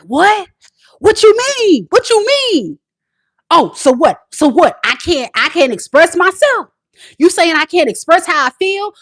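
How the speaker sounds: defensive whining. Retold or imitated. Grown boy arguing back at his girlfriend, high and whiny. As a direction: play the childish boyfriend getting defensive. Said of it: "a grown boy gonna be like".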